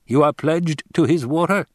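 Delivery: high, rising query; surprised question. A narrator's reading. Fremen checking Hawat's pledge, intent and questioning. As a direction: lift it into a question.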